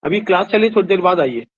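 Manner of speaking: teacher calls out to a visitor during class; calling out. Real, not acted. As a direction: call across the room to the visitor.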